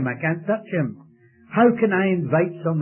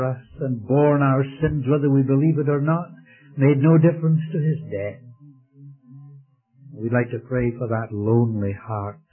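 closing prayer. Acted. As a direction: pray over the congregation tenderly.

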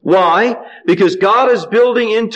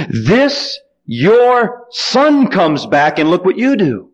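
slow, resentful accusation; elder brother slowly accusing his father; angry retort; much slower than usual. Acted. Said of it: "did you see the anger there".

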